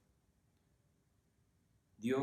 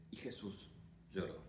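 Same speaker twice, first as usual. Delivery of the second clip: almost whispered, much softer; hushed; 3 semitones lower, 11 dB quieter than usual. Acted. Preacher reads the shortest verse to congregation, hushed. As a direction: let the verse fall to a hush.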